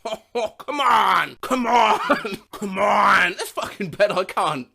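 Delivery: shouted, strained comedian impression; Adam Sandler. Shown as a demonstration. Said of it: "who can do an Adam Sandler impression".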